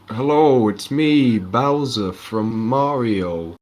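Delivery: slow, drawn-out mock villain voice; Bowser voice. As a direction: ham up a slow Bowser boast. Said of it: "he's like".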